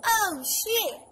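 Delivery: a sharp startled oh shit; mock startled curse; startled mom. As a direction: blurt it like a jolted driver. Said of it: "That was my mama saying".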